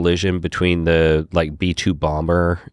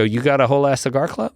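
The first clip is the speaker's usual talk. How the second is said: mock amazed disbelief; 9 semitones higher, faster than usual. Retold disbelief at the table.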